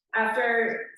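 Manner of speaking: "After" in a Wisconsin accent, flat nasal a. Real, not acted. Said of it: "my Wisconsin accent's coming out".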